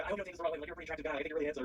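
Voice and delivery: high mock-earnest compliment; imitating an overfriendly drunk. Interviewee mimicking the drunk man's awkward compliment, high earnest voice. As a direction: pitch it up, awkwardly over-sincere. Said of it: "He's like".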